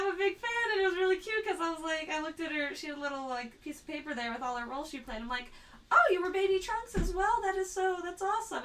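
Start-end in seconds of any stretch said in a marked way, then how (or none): 5.9-8.6 high, excited fan voice; retold gushing. Fan to voice actress about Baby Trunks, retold gushing. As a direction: gush in a raised pitch.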